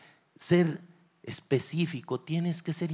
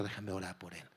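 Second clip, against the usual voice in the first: hushed request; 6 semitones lower, 12 dB quieter, faster than usual. Retold or imitated. Pastor quietly asking bystanders to pray. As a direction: drop to a near hush. Pastor asks permission at accident.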